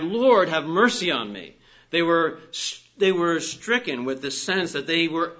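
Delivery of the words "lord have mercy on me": raised pulpit plea; preacher voicing blind men's cry. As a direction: call it out as an imitated plea, louder. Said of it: "The blind men cried".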